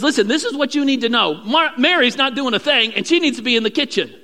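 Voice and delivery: bossy instruction. Acted. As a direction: tell the Lord firmly what he must do. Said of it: "she goes to Jesus and says".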